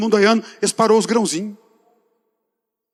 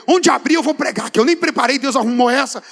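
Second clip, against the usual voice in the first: indignant, higher-pitched retort; mildly worked-up indignation, pitched up; indignant outburst; 4 semitones higher than usual. Retold or imitated. Preacher retelling his answer to God, indignant. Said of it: "fiquei tão indignado que eu falei".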